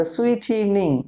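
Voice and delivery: very slow, stretched out; slow, clear teacher model; slow demo. Shown as a demonstration. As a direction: draw each word out for learners. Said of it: "या".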